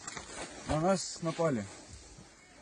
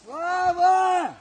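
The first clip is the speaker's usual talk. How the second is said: high, loud call of a name; calling from far away; 13 semitones higher, 10 dB louder than usual. Real, not acted. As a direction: shout the name across the field. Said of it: "Давай, кричи".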